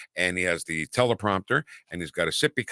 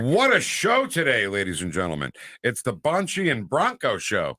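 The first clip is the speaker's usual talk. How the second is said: showy announcer; 3 semitones higher than usual. Pretend. Co-host billing the day's lineup to listeners, showy announcer. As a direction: play the hammed-up emcee.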